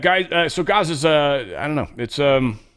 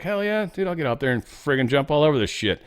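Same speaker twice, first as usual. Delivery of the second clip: eager sidekick; 4 semitones higher than usual. Retold or imitated. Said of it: "And he's like".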